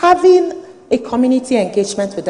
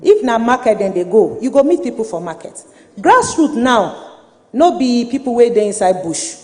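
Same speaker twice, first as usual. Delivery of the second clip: Nigerian Pidgin. Real, not acted. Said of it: "I'm going to speak in Pidgin".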